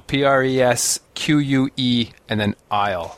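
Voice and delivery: slow, separated spelling of the name; breaking it down. Shown as a demonstration. Host spelling Presque Isle for confused travellers, slow and deliberate. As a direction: spell it out slowly, letter by letter. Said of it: "I'll break it down".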